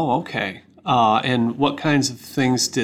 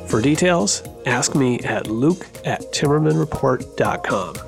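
ad read. Acted. Host reads sponsor ad over music.

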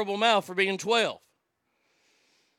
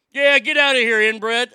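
mocking chirp; 7 dB louder than usual. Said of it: "they start chirping".

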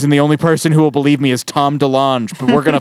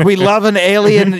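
gleeful fan squeal; 9 semitones higher, 4 dB louder than usual. Acted.

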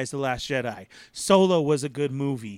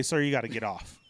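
ride attendant; 7 semitones lower, 5 dB quieter than usual. Retold or imitated. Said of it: "they do at me at SeaWorld and just say".

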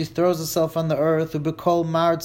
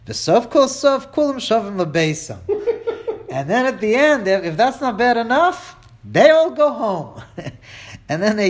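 laughing while talking, higher and louder; giggling through the dark joke; 6 semitones higher, 3 dB louder than usual. Real, not acted. Teacher cracking up at the joke about mourners going home, laughing.

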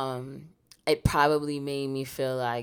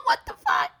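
mock shocked whisper; 4 dB louder than usual. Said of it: "And he goes".

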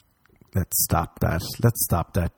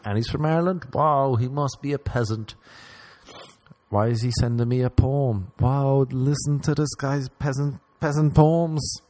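snooty mock; 5 semitones higher than usual. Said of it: "And they'll be like".

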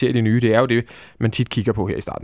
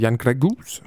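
name said with a Swedish accent; much slower than usual. Real, not acted. Host naming the Slovak player, in a Swedish accent. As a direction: give the name a Swedish lilt. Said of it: "med svensk accent".

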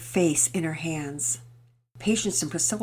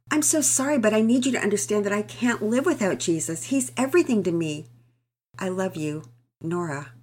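read aloud; 3 semitones higher than usual. Acted. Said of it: "Mama Peters read the note aloud".

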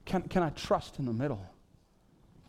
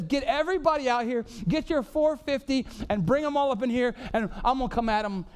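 bold challenge; 7 semitones higher than usual. Acted. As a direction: challenge them boldly. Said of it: "Who says".

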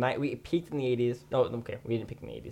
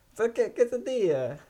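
mock Mexican accent; 10 semitones higher than usual. Showing friends his perfected Mexican accent, hammed up. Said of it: "Mexican accent that you perfected".

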